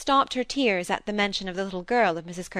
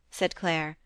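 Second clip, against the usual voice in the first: ordinary delivery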